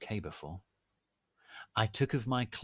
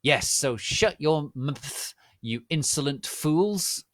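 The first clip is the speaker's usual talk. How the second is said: loud, slow, higher scolding; furious teacher yelling; yelled; 6 semitones higher, 7 dB louder than usual. Acted. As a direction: yell down at the fools. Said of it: "yelled Professor McGoggle".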